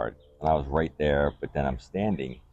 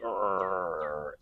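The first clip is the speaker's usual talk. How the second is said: drawn-out growling groan, held back in volume; mock a noisy climax without full loudness; imitated climax groan; 5 semitones higher, 4 dB quieter than usual. Man retelling his loud finish, imitated groan. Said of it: "I am so obnoxiously loud".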